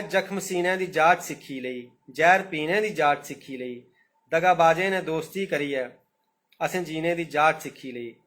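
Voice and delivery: slow, measured verse reading; poem recitation. Acted. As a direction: let each line of the verse land. (कविता पाठ, होलें होलें)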